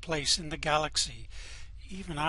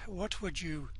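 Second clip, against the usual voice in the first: sinister hush; 3 semitones lower, 6 dB quieter than usual. Acted. Evil officer tempting Zaphod, softly menacing. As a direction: lean in and tempt him quietly.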